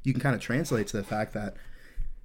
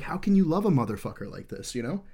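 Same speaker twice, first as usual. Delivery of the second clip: pitched-up, incredulous appeal; retold incredulity; 4 semitones higher, 3 dB louder than usual. Soldier recalling his reaction to the begging wife, incredulous. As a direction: ask in raised-voice disbelief, as remembered.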